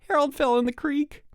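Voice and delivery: high, gleeful singsong news; crowing. A narrator's reading. Mike delights in Harold's fall, crowing. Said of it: "crowed Mike".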